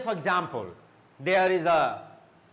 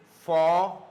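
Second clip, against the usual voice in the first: formation split into for, may, shun with long pauses; syllable by syllable; 4 dB louder than usual. Shown as a demonstration. Teacher introducing T I O N words, syllable by syllable. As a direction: formation in three separate beats. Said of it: "three syllables".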